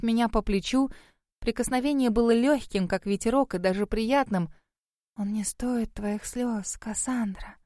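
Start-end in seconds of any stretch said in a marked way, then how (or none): 5.2-7.6 soothing. A narrator's reading. Ghost comforting crying girl.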